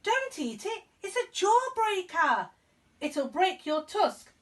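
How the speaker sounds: high, slow, urgent mouse pleading; a little mouse begging his friend to stop; squeaky mouse voice. Acted. Mister Mouse warning Ganesh about his tusk, high and squeaky. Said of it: "squeaked Mister Mouse".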